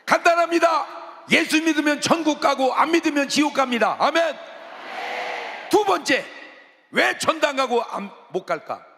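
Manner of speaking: high, loud proclamation; full-force preaching. Acted. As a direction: thunder the gospel at the congregation.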